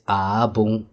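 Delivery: Abung with flat, heavier stress; Abung, weighted and level; not-good stress. Shown as a demonstration. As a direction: lean on Abung to mean bad. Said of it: "because I stress it's".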